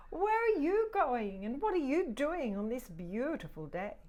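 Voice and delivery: a curious cat asking. Acted. Cat voiced in story.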